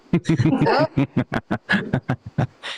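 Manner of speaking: strained grunt under a weight; gym grunt straining. Shown as a demonstration. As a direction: grunt like lifting too much. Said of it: "that is the sound I make when the weight is too heavy".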